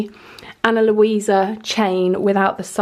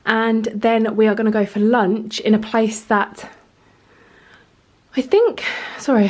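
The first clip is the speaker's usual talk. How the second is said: breathless after running up the stairs; panting a little between words; out of breath. Real, not acted. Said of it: "I'm out of breath".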